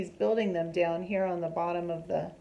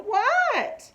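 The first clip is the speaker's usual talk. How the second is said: annoyed call; 14 semitones higher, 5 dB louder than usual. A narrator's reading. Froggy answering sister.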